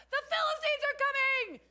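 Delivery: high alarmed shout of warning; yell. Retold or imitated. Delilah yelling to wake sleeping Samson, alarmed shout. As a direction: cry out the alarm to wake him. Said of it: "she yells".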